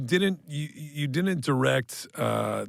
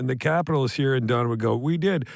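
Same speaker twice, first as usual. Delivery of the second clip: a loud hockey-pundit imitation, mock solemn; mock TV pundit turning grim; Don Cherry; 4 dB louder than usual. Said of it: "Don Cherry on Coach's Corner would be like".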